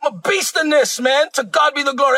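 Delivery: fired up, riding the momentum; amped up. Real, not acted. Preacher caught up in his own point, amped up. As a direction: let the excitement carry you. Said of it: "I'm sorry, I get amped up".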